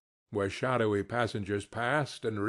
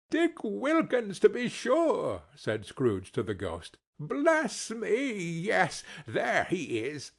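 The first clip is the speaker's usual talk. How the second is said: lightly voiced Scrooge, moved; fond old Scrooge. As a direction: Scrooge telling the ghost about Dick.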